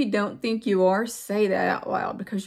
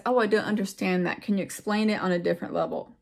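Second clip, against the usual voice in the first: quick, light ask; faster than usual. Shown as a demonstration. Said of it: "Just leave it as".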